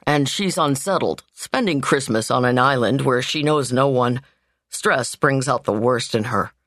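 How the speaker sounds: lightly voiced man excusing his sister; the brother. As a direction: explain gently as the steady brother.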